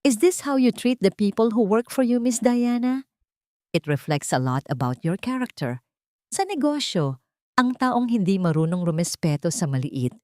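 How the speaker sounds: lightly voiced heiress scolding, measured; stern rebuke. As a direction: Isabela warning Diana, cool and stern. Isabela rebukes Diana.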